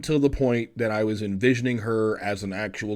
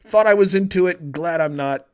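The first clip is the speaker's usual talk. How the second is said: inner voice. Retold or imitated. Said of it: "the whole idea was like".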